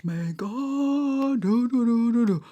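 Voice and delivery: a hint of a pious churchgoer, mocking. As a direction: lightly mimic a sanctimonious believer. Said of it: "They say things like".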